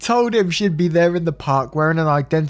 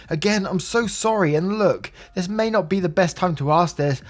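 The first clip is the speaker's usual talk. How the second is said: higher, out of breath from chasing; catching his breath; 6 semitones higher than usual. Retold or imitated. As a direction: pant out the worried question after running. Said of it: "catching his breath".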